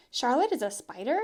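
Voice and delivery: a mother taken aback; alarmed mother. Acted.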